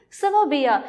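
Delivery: "sababia" starting with s; careful model of "sababia" with initial s; soft s sound. Shown as a demonstration. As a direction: say "sababia" with an s instead of a k. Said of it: "it gives us s, s sound".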